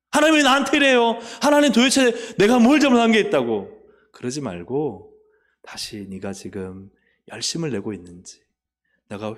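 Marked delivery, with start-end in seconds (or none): 0.1-3.7 high, loud whiny protest at God; mock the grumbling believer, loud and aggrieved; mimicking a churchgoer's indignant complaint; imitated complaint.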